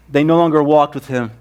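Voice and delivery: casual. Shown as a demonstration. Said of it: "It's not that casual".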